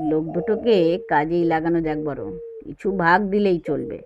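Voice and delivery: quiet uncle sharing a plan; whispering in ear. A narrator's reading. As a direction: lean in and say it close to his ear. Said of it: "ছোটকা কানে কানে বলল".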